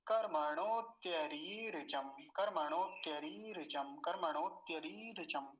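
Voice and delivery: slow syllable-by-syllable Sanskrit recitation of कर्मणोत्य री ऋचम; teacher drilling students, reciting कर्मणोत्य री ऋचम slowly. Shown as a demonstration. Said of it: "आसान हो गया होगा ये शब्द".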